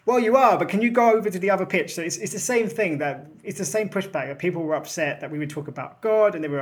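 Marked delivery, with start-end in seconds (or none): 0.1-1.9 exasperated retort. Retold or imitated. Exasperated retort in football analogy.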